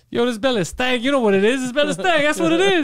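lightly hammed-up hype-man bragging; mock swagger. Replays the swaggering catchphrase bit.

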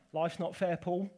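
lightly voiced matter-of-fact mum; a hint of mum. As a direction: mum brushing off her son's complaint, lightly done. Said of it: "what my mum used to say to me".

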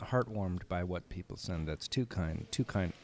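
quiet courtside murmur; hushed. Real, not acted. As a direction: keep it low, people can hear. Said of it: "Everyone can hear you".

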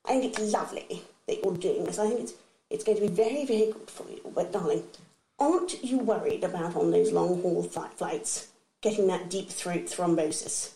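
a hint of a genteel grandmother, darling-laden; posh granny voice. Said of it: "in her very posh voice".

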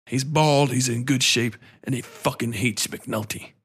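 lightly imitated measured, authoritative man; hint at an actor's commanding voice; Lance Reddick. Describing an actor from The Wire, lightly imitating his voice. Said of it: "he's the man that talks like this".

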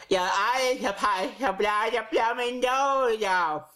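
mocking, slow, mangled Cockney send-up; Michael Caine. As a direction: parody a bad impression, smearing every word. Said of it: "That's what you sounded like".

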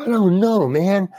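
high-pitched, flustered protest; retold helpless panic. Actor asked if he will cry, flustered. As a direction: plead cluelessness, acting out panic.

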